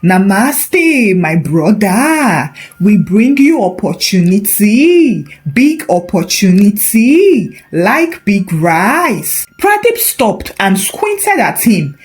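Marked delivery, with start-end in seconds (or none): 0.0-9.5 slow, put-on Indian accent; hammed-up Indian accent, drawn out; fake Indian accent. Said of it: "greeted him in fake Indian accent".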